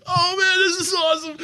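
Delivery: high, loud gushing delight; acted fanboy excitement. Fan meeting the bar owner, hammed-up gushing excitement.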